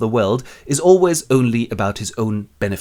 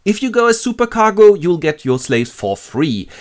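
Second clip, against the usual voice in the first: scheming neighbor; 8 semitones higher, 5 dB louder than usual. Acted. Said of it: "a neighbor comes up to him and goes".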